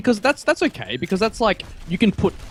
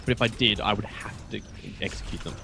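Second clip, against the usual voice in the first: whispered; 6 semitones lower, 7 dB quieter than usual. Acted. Deadpan threat about pie haters.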